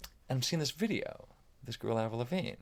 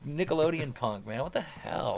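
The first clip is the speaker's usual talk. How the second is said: higher-pitched mock exasperation; clowning mockery; 3 semitones higher than usual. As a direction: make fun of it among friends. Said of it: "me and my friends are kinda clowning it".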